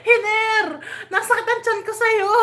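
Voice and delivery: high squeals of laughter through the words; can barely talk for laughing; laughing hard. Real, not acted. Laughing so hard at the viewer's joke her stomach hurts.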